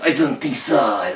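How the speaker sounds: put-on slow French-accented smoker; drawn-out mock French dismissal; puffing French cat. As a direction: puff out a languid French refusal. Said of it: "'cause he was puffing".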